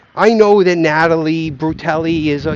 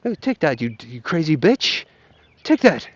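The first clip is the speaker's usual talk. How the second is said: attempted English accent. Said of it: "he has an English accent".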